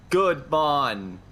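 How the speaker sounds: put-on Jamaican accent. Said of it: "you better do it in a Jamaican accent".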